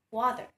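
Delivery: "water" with the final R sounded; American pronunciation. Shown as a demonstration. Teacher repeats American WATER for the class, r sounded. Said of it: "In American English, it is pronounced as".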